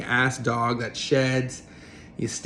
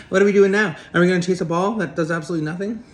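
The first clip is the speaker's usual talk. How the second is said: eager dog voice; 4 semitones higher, much faster than usual. Retold or imitated. The dog voiced by its owner, asking eagerly to chase a ball. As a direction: gush like an overexcited puppy. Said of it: "It's constantly like".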